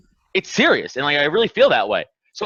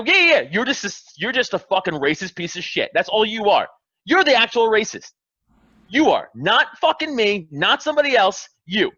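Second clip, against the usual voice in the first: a mildly raised mock yell; retold telling-off; 4 semitones higher than usual. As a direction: lay into the racist, half in jest. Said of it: "and I go".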